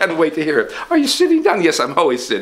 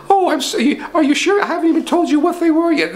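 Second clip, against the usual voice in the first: higher pompous rich man; 12 semitones higher than usual. Acted. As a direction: puff up as the rich boss.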